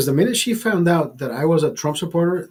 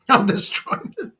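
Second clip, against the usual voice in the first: cracking up mid-brag, higher and slower; giggling, pitched up, drawn out; laughing; 7 semitones higher than usual. Retold or imitated. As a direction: laugh through the boast. Bragging quote repeated through laughter.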